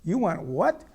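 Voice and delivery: loud, high incredulous shout; screaming back. Retold or imitated. Driver screaming now back at the officer, incredulous yell. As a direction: shout it back, rising in disbelief. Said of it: "I'm screaming now back at him".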